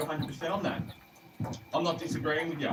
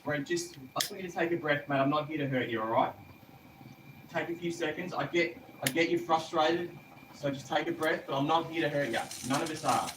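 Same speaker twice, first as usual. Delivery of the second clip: measured, lowered reassuring voice; calming reassurance; 2 semitones lower than usual. Real, not acted. Officer promising frightened man no harm, calming reassurance. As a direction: settle him down gently, with pauses.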